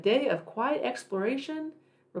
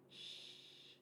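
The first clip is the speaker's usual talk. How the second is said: shush; 31 dB quieter than usual. Acted. Shushing in library story.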